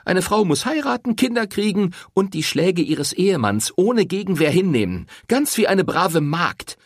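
sarcastic mimicry of the sermon; mocking recital. A narrator's reading. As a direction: parrot his old tune with scorn. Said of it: "Diese Leier kenne ich".

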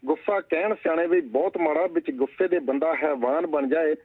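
steady recited verse, lines repeated; poem recital. Acted. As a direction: recite the couplet like a poet on stage. Recites own poem on anger. (ਕਵਿਤਾ ਪਾਠ ਦੇ ਅੰਦਾਜ਼ ਵਿੱਚ)

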